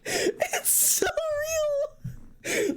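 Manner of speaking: very high, slow, wheezing laugh-cry; crying with laughter. Real, not acted. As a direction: laugh so hard it turns to tears. Crying with laughter over Victor.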